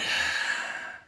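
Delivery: a breathy sigh after talking too long; tired sigh. Real, not acted. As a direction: let out a winded sigh. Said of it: "losing my breath here".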